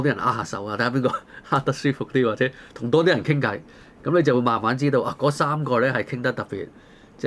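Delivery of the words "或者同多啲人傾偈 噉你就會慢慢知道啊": ordinary talk, nothing marked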